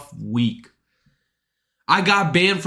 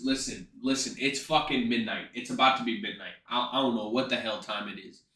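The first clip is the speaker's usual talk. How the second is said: quiet; 3 semitones lower, 10 dB quieter, faster than usual. Real, not acted. Late night sick talk.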